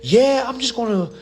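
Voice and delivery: a hint of a clueless caller; mocking a naive woman. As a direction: imitate her carefree plan. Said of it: "I heard one woman, she was like".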